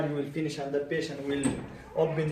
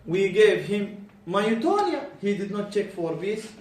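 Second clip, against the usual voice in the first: examiner's report; 4 dB louder than usual. Retold or imitated. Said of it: "They will write".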